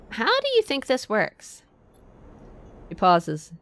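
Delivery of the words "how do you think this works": slow, higher-pitched counselor voice; lightly acted, drawn-out challenge; exasperated counselor. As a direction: ask it slowly, pitched up, as the counselor. Voicing the sighing counselor's retort.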